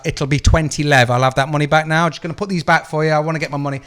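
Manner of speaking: retold shop row, loud and insistent; forceful demand. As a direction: lean on every word and push. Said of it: "bullied my way into her".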